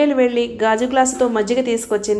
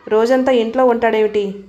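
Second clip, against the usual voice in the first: ordinary delivery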